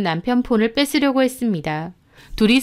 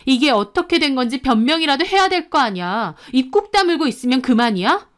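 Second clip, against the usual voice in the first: mildly heated, slightly higher demand; angry wife; 4 semitones higher than usual. Acted. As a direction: press a silent husband for an explanation. Shoved wife demands explanation from husband. (따져 묻는 아내의 화난 말투)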